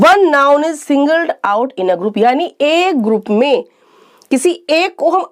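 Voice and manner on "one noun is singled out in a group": slow definition. Shown as a demonstration. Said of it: "It means".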